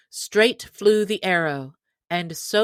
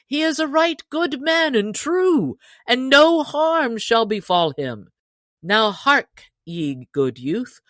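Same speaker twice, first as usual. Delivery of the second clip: hearty Robin Hood; 4 dB louder than usual. Acted. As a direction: boom out an invitation like a jolly chief. Robin addresses the stranger.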